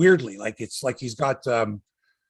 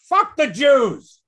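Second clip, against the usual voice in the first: slow, higher, louder mock yell; retold yell; 11 semitones higher, 7 dB louder, much slower than usual. Heckler yelling at the comedian, a mock yell. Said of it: "some woman yells out".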